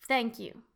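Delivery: careful "Thank you." with a clear th; model pronunciation. Shown as a demonstration. Teacher models "Thank you." for repetition. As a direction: say "Thank you." with the tongue between the teeth on th.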